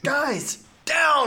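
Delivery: very high, loud mock warning; hammed-up high-pitched holler; pretend warning yell. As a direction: yell to the gang as if in danger. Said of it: "I would have yelled".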